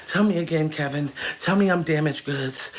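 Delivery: low, soft, swooning woman begging Kevin. Retold or imitated. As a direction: coo like a smitten fan, low and hushed. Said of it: "Oh, yes".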